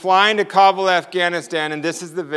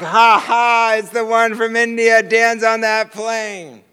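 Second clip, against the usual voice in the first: Jesus, thrilled; 4 semitones higher than usual. Acted. Jesus at the fence spotting Dan's plane, thrilled. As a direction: crow it out high with delight. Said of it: "Jesus runs up to the fence again".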